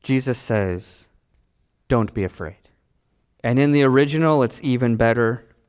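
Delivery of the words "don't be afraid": low, gentle reassurance; reassuring. Acted. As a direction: settle their fear with a low voice. Voices Jesus calming the disciples.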